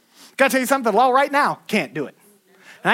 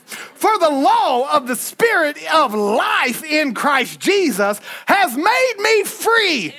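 preached scripture; 3 semitones higher, much slower than usual. Real, not acted. Preacher reads Romans to the congregation, slow and shouted. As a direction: ring each word out to the back pews.

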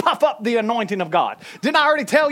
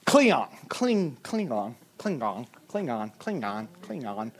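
"Klingon" growled lower, fading to a much softer rumble; 13 semitones lower, 8 dB quieter than usual. Shown as a demonstration. Preacher playing with the word "Klingon", low growl fading. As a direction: repeat "Klingon" like a guttural alien word. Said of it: "It sounds Klingon".

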